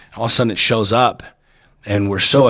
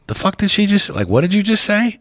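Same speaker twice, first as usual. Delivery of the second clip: incredulous disbelief; 11 semitones higher than usual. Retold or imitated. Stunned reaction to shaman's challenge.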